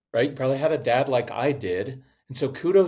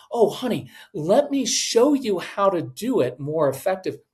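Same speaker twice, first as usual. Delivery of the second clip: sweet, higher mock mom voice, pushing help; lightly hammed-up over-helpful parent; sugary hovering mom; 5 semitones higher than usual. Mom interrupting child's project, mock sweet pushy tone.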